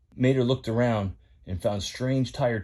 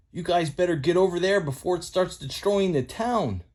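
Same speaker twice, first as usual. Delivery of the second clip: higher, twangy country tow truck; lightly pitched-up country boy voice; folksy tow truck Mater; 7 semitones higher than usual. Acted. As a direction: play Mater the rusty tow truck, eager to spill news.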